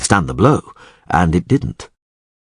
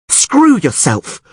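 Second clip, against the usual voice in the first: high, slow, drawn-out fury; angry scream; 11 semitones higher, much slower than usual. A narrator's reading. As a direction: hurl it at the chamberlain. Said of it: "screamed Yennefer".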